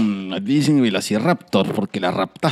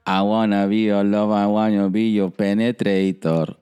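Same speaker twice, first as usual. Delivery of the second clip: Tibetan monk voice; 4 semitones lower than usual. Pretend. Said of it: "Con voz de monje tibetano".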